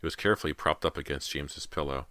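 plain reading voice

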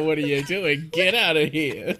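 put-on New York accent. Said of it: "Why are we doing New York accents?".

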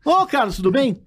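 a hint of a cheerful colleague; friendly colleague. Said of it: "ele, "Alô?". (leve imitação de colega simpático)

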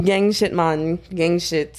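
echoed mock British rap slang; playful UK street-accent echo; British rapper. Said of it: "making all of the British rappers".

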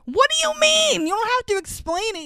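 squeaky high mock innocence; high falsetto innocent mom. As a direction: play dumb in a squeaky high voice. Mock-incredulous mom reply.

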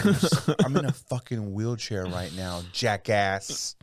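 hammed-up self-righteous complaint; mock indignant put-down; righteous indignation. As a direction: play the offended victim. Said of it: "Righteous indignation".

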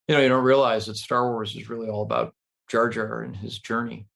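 lightly voiced George Lucas, fast; a mild hint of George Lucas musing; George Lucas impression. Telling the host what Star Wars is about, a light George Lucas voice. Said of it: "George Lucas is really fun".

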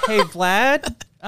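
calling Vlad through a laugh. Pretend. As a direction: giggle while you say it.

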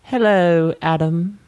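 high, put-on celebrity voice; Eddie Murphy voice. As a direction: pitch it way up as Eddie. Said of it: "Why do you sound like this?".

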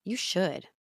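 hushed encouragement; whispering. Real, not acted. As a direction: whisper it back. Hushed reply.

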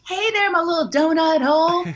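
high, loud sugary hello; put-on candy-seller sweetness; cute candy-shop greeting. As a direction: call out a pet name playfully. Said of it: "when you're in the candy shop".

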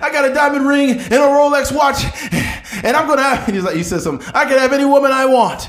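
high, loud flashy boast; Ric Flair impression. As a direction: brag loudly like Ric Flair.

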